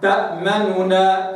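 slow تأمنونا with the damma snatched short; stolen damma. Shown as a demonstration. Teacher showing the stolen damma. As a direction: say تأمنونا, damma barely touched. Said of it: "هذا الاختلاس".

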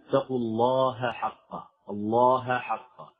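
careful ه then ح in الله حقه; recited الله حقه with both letters sounded; distinct ha letters. Shown as a demonstration. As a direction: keep the ه of الله apart from the following ح in حقه. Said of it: "لا بد من إظهار الهاء والحاء".

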